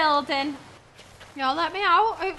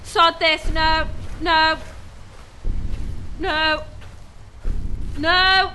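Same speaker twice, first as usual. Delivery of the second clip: panicked no; slower than usual. Real, not acted. Panicked refusals.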